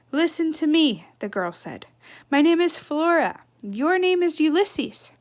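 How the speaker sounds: put-on a girl telling the squirrel who he is, firmly. Girl firmly introducing names.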